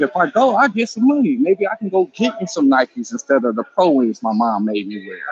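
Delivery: put-on a touch of an excited kid; young self asking. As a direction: play your younger self begging for a job. Kid self dreaming of Nikes.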